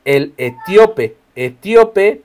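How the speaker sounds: etíope with a firm accent on the Í, e-TÍ-o-pe; stress on the I. Shown as a demonstration. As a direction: slowly mark the TÍ in etíope. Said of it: "tiene acento en la I".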